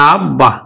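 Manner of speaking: আব্বা with the ব doubled, বː held; pronounced example. Shown as a demonstration. Teacher modelling আব্বা to students. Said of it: "লিখলাম আব্বা".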